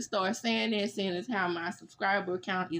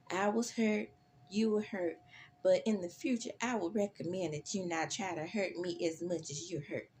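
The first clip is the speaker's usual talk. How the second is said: condescending; 5 dB quieter than usual. Retold or imitated. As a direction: talk down to her calmly. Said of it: "in her condescending tone says".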